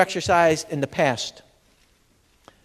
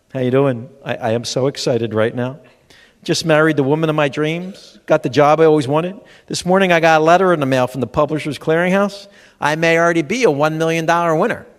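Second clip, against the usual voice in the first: lower, deadpan voice for happy news; mock gloomy voice; 3 semitones lower than usual. Comic showing someone never sounds excited, lower and gloomy. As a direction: read out good news like a funeral. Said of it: "walking around like".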